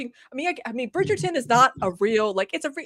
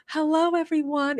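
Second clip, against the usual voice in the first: imitating her new voice; 5 semitones higher than usual. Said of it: "her voice was so much deeper. But now she's like".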